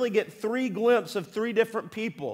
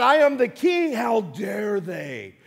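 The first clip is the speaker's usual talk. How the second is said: furious king; 5 dB louder, slower than usual. Retold or imitated. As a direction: bellow as a king who was tricked. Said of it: "He became furious".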